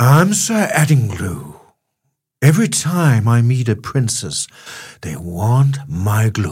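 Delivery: low, loud fake British accent. Retrying a knight character, now in a British accent. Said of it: "Britisk accent".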